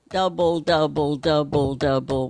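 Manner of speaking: double, double, double, double, all said the same; flat even doubles. Shown as a demonstration. Teacher showing students the wrong flat way, even. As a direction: count the doubles evenly, no accent. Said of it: "instead of just".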